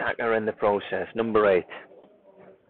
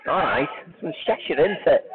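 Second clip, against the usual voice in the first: badly faked Scouse; attempted Scouse accent; 2 semitones higher than usual. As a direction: have a half-hearted go at Scouse. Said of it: "I was trying to do Scouse".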